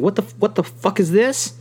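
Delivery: incredulous mock reaction; shocked disbelief. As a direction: react like you can't believe what you're reading. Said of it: "I was like".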